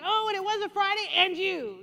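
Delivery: high, fast worked-up spouse; mock heated spouse. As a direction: pile on the grievances. Spouse bringing up everything.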